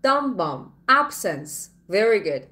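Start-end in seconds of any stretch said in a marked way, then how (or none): 0.0-0.6 "Dum bum" as two beats, the first stronger; musical stress pattern. Shown as a demonstration. Teacher tapping out the word's rhythm, "Dum bum" with first beat stressed. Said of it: "are like music". 0.9-1.5 "Absence" stressed on AB, falling away after it; stress on first syllable. Shown as a demonstration. Teacher repeating the rhythm for students, "Absence" front-stressed. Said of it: "Stress is at the beginning of the word".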